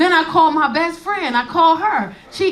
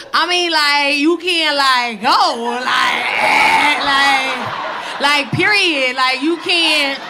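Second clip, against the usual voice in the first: a light parody of the daughter's 'like' talk; mocking teen talk; slower than usual. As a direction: mimic her teen slang back at her. Mother mocks daughter's talk.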